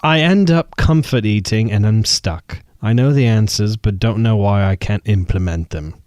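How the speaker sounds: clumsy mock British accent, reading aloud; bad British accent. Host reads the UK letter aloud in a bad British accent. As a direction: put on a British accent, not very well. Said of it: "That was a terrible accent".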